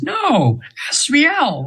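high otherworldly correction; angel's high correcting voice. Retold or imitated. Angel correcting his pronunciation.

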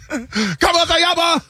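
lightly done movie-line impression; Steve Carell impression. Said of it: "how my man said it in forty-year-old virgin".

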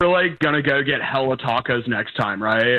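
overdone California bro accent; hammed-up California guy voice; full California. Shown as a demonstration. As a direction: lay on the laid-back California dude talk. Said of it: "I could go full California".

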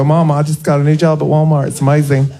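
lightly put-on Southern accent. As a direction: tell mom the news in a Southern accent. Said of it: "I'm doing a Southern accent for a reason".

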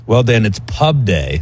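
hushed golf announcer voice. Acted. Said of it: "why are we using that voice today".

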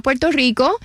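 Puerto Rico said the Spanish way, pwer-toh REE-koh; Spanish Puerto Rican accent. Real, not acted. Guest naming her home town to the host, in a slightly thicker Puerto Rican accent. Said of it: "Your accent got a little thicker".

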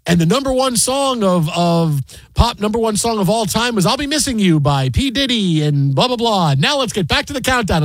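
lightly mimicked radio announcer; a hint of a countdown host; retold voiceover read. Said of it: "somebody's voice says".

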